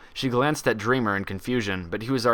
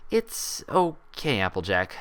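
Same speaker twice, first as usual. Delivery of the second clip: confused reassurance; slower than usual. Acted. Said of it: "unable to keep confusion from seeping".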